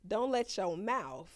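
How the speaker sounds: slow, lightly voiced mother's warning; old-school mama. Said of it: "These for the old school mamas".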